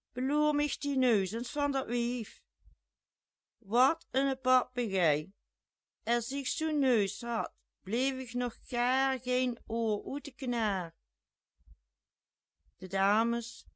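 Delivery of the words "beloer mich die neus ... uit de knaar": mocking. A narrator's reading. Jeanette mocking the lady.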